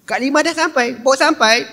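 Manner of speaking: high, teasing schoolgirl voice; sing-song taunt at Limah; teasing gossip girls. Retold or imitated. Gang teasing, higher voice.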